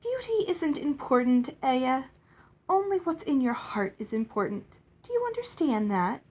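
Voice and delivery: lightly voiced lofty fairy, pitch lifted; sweetly instructing fairy. Fairy lady teaching a child about beauty, lightly voiced.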